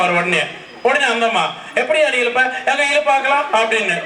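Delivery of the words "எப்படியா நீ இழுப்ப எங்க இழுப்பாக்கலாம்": higher-pitched mock challenge; lightly acted quarrelling comeback; acted wifely retort. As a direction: play a wife daring her husband.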